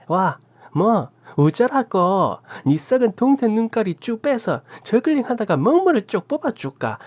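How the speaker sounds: put-on an old aunt unleashing a torrent of curses; Gyeongsang cursing tirade. A narrator's reading. Aunt bursting into the room, cursing in Gyeongsang dialect. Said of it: "쌍욕을 경상도 사투리로 찰지게 쏟아붓자".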